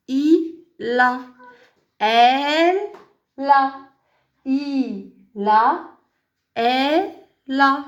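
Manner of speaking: "il a", "elle l'a" in stretched pieces, l starting the second; liaison marked. Shown as a demonstration. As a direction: draw out each pronoun, pause, then land "la". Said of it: "Il faut marquer la liaison aussi".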